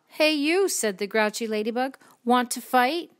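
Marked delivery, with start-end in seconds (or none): 0.1-0.7 high, loud storybook call-out; grouchy challenge. A narrator's reading. Grouchy ladybug accosting a stranger, high loud challenge. 2.2-3.1 grouchy challenge. A narrator's reading. Grouchy ladybug picking a fight, loud rising challenge.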